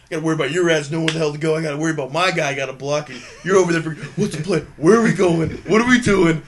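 loud, high angry yelling at the rookie. Retold or imitated. Teammate screaming at the rookie, high angry yell. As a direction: bellow at the rookie in a rage.

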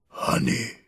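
secretive stage whisper; deep whisper. A narrator's reading. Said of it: "said in a deep whisper".

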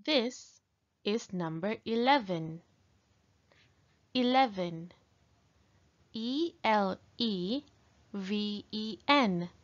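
slow, bright sing-song counting; teaching a child to count. Acted. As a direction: count aloud for young learners. Teacher drills counting for kids.

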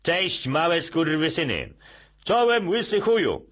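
high, loud, slow crude greeting; brash shout. Retold or imitated. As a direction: bellow it like a rough boss. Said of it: "dyrektor wchodzi do klasy".

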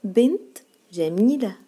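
slow, loud "بنت جميلة" with the T of "بنت" sounded; teacher's drawn-out "بنت", ending in T; final taa pronounced. Shown as a demonstration. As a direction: model "بنت جميلة" slowly, keeping the T in "بنت". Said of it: "نطقناها تاء".

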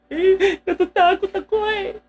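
put-on a small child's scared whine. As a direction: whimper it like a frightened little kid.

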